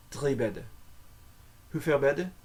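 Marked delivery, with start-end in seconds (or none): 0.1-0.6 Drie with a guttural R from the back of the throat. Shown as a demonstration. Teacher repeats Dutch for three beds, throat R. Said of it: "in the back of the throat".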